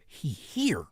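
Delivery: soft whispered warning; secretive whisper. Retold or imitated. Moderator's text retold as a soft whisper. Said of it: "She said".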